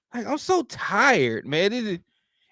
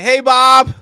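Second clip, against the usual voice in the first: chipper office voice; 4 semitones higher, 8 dB louder than usual. Retold or imitated. Office greeting parody.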